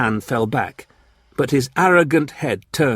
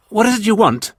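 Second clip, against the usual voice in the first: raised, bold demand; bold question; 11 semitones higher, 4 dB louder than usual. A narrator's reading. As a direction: ask it boldly, higher and louder. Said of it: "Jan boldly asked".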